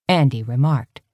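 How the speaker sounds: usual speaking voice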